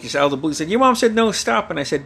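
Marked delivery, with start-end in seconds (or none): 0.7-1.7 higher, louder retold scolding; imitated stern dad. Dad breaking silence to back mom up, mock stern. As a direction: lay down the law as an acted dad.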